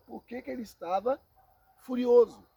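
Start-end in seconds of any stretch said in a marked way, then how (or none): 1.8-2.5 furioso shouted out loud and hard; preacher's shout on furioso; emphatic. Acted. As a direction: hit furioso with a loud burst. Preacher stresses Cain's fury.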